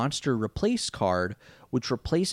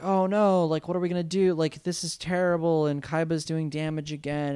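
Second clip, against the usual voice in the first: mock panic; 6 semitones higher than usual. Everyone panics at the duel.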